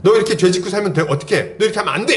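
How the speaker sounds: high-pitched, urgent mock telling-off; imitated scolding. Group leader scolding a younger member over sin, mock-stern. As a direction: chide like an older church member. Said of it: "죄에 대해서 막 혼낼 때가".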